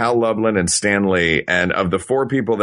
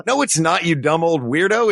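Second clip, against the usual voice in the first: higher-pitched mock indignation; indignant fan; 6 semitones higher than usual. Fan tells off the inventor, mock indignant. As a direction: scoff back at the imagined creator. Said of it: "You're like".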